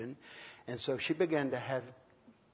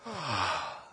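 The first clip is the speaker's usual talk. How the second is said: yawning sigh; 4 semitones lower than usual. Shown as a demonstration. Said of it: "The biggest manifestation ... is a yawn".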